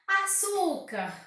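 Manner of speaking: "açúcar" com o ÇÚ alongado; ênfase em ÇÚ. Shown as a demonstration. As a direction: destaque a sílaba do meio de "açúcar". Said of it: "através da pronúncia". (a-ÇÚÚ-car, tônica marcada)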